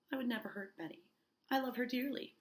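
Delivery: lightly acted frightened niece; quavering. Abigail denying she hurt Betty, lightly quavering. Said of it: "quavering, which means shaking".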